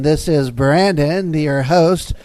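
booming movie trailer announcer. Acted. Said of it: "that's my trailer voice".

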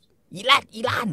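high, slow, drawn-out insults; imitating a furious wife; mock shriek. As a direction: stretch each insult out high. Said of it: "ด่า".

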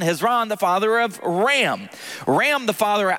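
steady formal scripture reading. Acted. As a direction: read the list like a reverent liturgy. Reads genealogy aloud.

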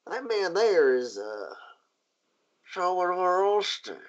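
walk him through the murder like a seasoned lawwoman; a marshal telling the ship owner how the victim died. Acted. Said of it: "And she goes".

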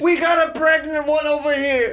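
hammed-up movie doctor. Movie cliché shout.

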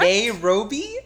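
loud, high incredulous Nairobi; shocked question. Retold or imitated. Friend echoing a mispronounced city name in disbelief. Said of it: "I was like".

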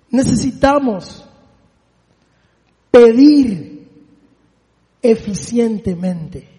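slow, each word set apart, pedir punched; slow emphatic word-by-word. Shown as a demonstration. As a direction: deliver it one word at a time. Preacher spells out key phrase.

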